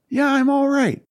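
very high, strained acted reply; high retold reassurance; son reassuring dad. Retold son reassures frantic father.

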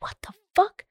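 high-pitched incredulous reaction; baffled disbelief. Retold or imitated. Storyteller reacting to the missing company, high-pitched disbelief.

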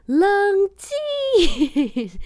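husband yelling calm down, laughing; a mock yell across the shop; loud shout. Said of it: "非常大声的嚷嚷". (老公在店外大喊冷静)

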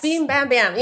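half-hearted Bronx guy impression; Bronx accent. Bank representative telling her his story, rough Bronx accent. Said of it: "a guy with a heavy Bronx accent".

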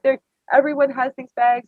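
high and loud with delight; excited. Retold or imitated. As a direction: gush about it, overjoyed. Thrilled at photo of bags.

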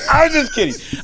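squeaky high-pitched take; high squeak. Pretend. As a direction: pop the voice way up. Repeat in high voice.

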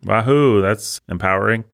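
mock cheer, dry and ironic; sarcastic cheer. Real, not acted. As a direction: fake enthusiasm, dripping sarcasm. Sarcastic cheer at frail heroine.

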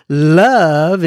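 "love" stretched out and leaned on; emphatic LOVE. Retold or imitated. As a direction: read "love" as if in capital letters. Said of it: "in big capital letters".

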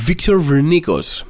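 the singer's name said as an English name; English pronunciation. Shown as a demonstration. Comedian introducing the singer by his Latin-spelt name, English pronunciation. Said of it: "Το λέω έτσι με αυτή την προφορά".

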